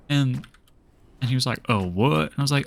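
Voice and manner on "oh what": lightly imitated Southern accent; a touch of mock Southern in the examiner's question. Student quoting the puzzled examiner, light Southern accent. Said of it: "a really bad Southern accent".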